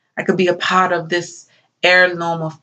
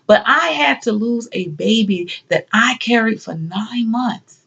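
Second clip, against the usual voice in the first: aggrieved, pitch swelling on each loss; impassioned grieving mother; anguished; 4 semitones higher than usual. Acted. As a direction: pile up the losses in rising anguish. Bereaved mother recounts her losses.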